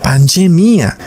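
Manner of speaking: pandemia said the Portuguese way. Shown as a demonstration. Preacher showing how Portuguese speakers say pandemia. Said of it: "se pronuncia bastante distinto en el portugués".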